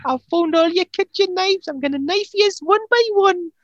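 menacing threat. Acted. Drunk Margaret threatens with knives.

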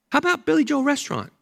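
a light hint of a pleading grandson; grandson asking. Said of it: "But Graham says".

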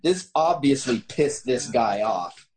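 measured, deliberate story reading; story narration. A narrator's reading. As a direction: read the tale out with emphatic phrasing. Reads a written story aloud.

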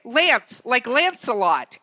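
"Lance, like Lancelot" slow and deliberate; careful enunciation. Shown as a demonstration. Host clarifying a surname on calls, "Lance, like Lancelot" slowly enunciated. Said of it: "So I've started saying".

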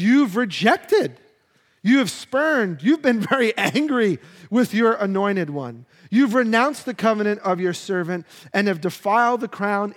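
grieving protest to God; anguished lament. Acted. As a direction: read it like an accusation to God. Reading a lament psalm aloud.

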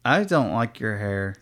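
flat, confident blurt; just say it outright, no hedging; blurted confession. Real, not acted. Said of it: "you said that so confident".

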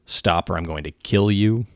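the wrong way to warn, a harsh slow threat; wrong version, barked threat. Shown as a demonstration. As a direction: bark it slowly like a raw threat. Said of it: "You do not say".

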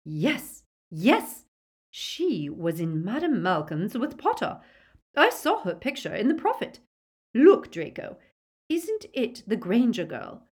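lightly voiced eager mother; excited Narcissa. A narrator's reading. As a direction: press her son to confirm.

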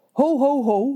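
high teasing ho ho ho; playfully voicing the listeners; mock surprise. (plagerige verbazing)

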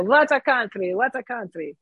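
light Russian accent, imitating Yakov Smirnoff's catchphrase; a lightly done Russian comedian accent on "What a country". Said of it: "in his Russian accent".

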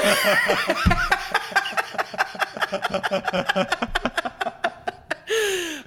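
long high peal of laughter; real high laugh. Real, not acted. Comic laughing at own story.

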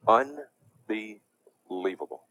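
disbelief. Real, not acted. Preacher outraged at clip.

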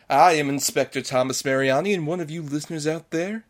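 a touch of theatrical detective; lightly acted inspector. Inspector announces a murderer among listeners, mildly theatrical. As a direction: lightly play the inspector addressing suspects. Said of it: "our little mystery play".

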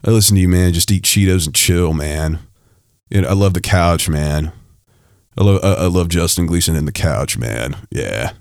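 a lazy slacker tossing off his words, man; mock lazy listener. Host mocking a listener who does nothing, in a quick lazy slacker mumble. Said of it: "somebody that says".

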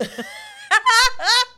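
high, loud shrieking laugh. Real, not acted. Laughing hard at her own American joke, high and loud. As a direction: burst into a squealing laugh.

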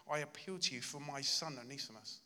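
a softly pleading "I appeal to you"; tender plea to a friend; quiet heartfelt appeal. Retold or imitated. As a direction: ask gently, from the heart. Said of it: "this heartfelt cry".

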